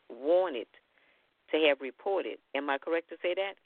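phone line sound; over a landline phone. Real, not acted. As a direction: caller on a landline. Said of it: "I'm calling from a landline number".

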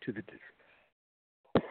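strained voice cracking mid-sentence; voice giving out. Real, not acted. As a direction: voice failing, slow and worn. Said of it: "I'm losing my voice".

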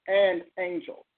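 "and angels" set apart with emphasis; stress on AND ANGELS. Shown as a demonstration. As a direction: punch "and angels" as the key phrase. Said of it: "I want you to focus on".

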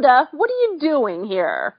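half-laughing cry of protest at the writer; mock outcry. Podcaster protesting the writer Shonda's choice, mock wail. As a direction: throw up your hands and wail at the writer.

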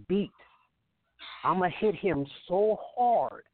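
hyped trash-talk promo; wrestling promo. Pretend. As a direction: cut a cocky wrestling promo. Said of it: "Cut a promo right here".

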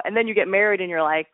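ordinary talk

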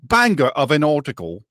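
lilting put-on British; playful British-accent aside; mock British accent. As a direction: borrow a British accent for the slang. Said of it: "as our friends across the pond say".

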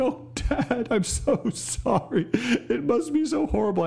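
put-on high, childlike sympathetic voice; a son's sorry, mock-high voice; imitating his son. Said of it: "Jack, he said".

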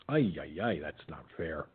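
groaning through a yawn; soft yawny complaint. Real, not acted. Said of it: "Excuse me for yawning".

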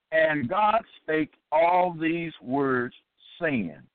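slow, deliberate Bible reading; solemn, drawn-out recitation of scripture. Acted. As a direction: read the verse out weightily, word by word. Reads scripture aloud.

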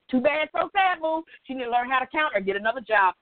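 rattled off fast and dismissive; fast, flippant mock taunt. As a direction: toss it away quickly with a scoff. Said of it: "that's why I said it like that".

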